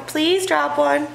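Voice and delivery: slowed-down pleading for the dog; slow begging dog voice. Shown as a demonstration. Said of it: "Lady saying".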